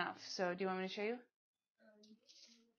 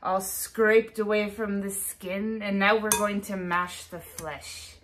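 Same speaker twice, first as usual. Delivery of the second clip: slow, drawn-out witch voice; 7 dB louder than usual. Acted. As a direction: play a witch stirring her brew. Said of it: "You sound like a witch".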